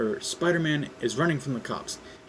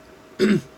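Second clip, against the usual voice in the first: throat clearing; 9 semitones higher, 9 dB louder than usual. Real, not acted. Clears throat before reading.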